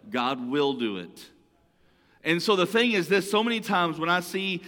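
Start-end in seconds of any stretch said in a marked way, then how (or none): 0.1-1.3 "will" pressed and held; God "will" said firmly; stress on will. Shown as a demonstration. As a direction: lean on the word "will". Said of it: "Everybody say will".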